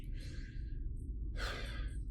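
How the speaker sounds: resigned, drawn-out exhale; weary breath, no voice; long sigh. Acted. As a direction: sigh softly as you give in. Character gives up the bed.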